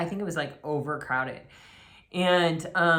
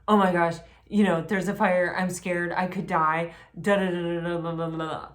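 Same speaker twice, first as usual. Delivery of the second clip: louder, breathless imitation of someone panicking; mock panic; 4 dB louder than usual. Imitating a panicked person at a fire, hammed-up fright. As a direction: act out a frantic, scared rush. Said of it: "of just being like".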